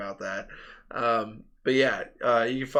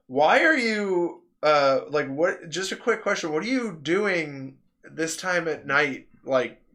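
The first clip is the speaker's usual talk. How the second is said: exasperated sister; 3 semitones higher than usual. Retold or imitated. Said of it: "And my sister goes".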